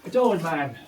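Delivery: put-on the old man in thick Derbyshire; Derbyshire accent. Shown as a demonstration. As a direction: say it like a Derbyshire miner. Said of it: "but for a heavy Derbyshire accent".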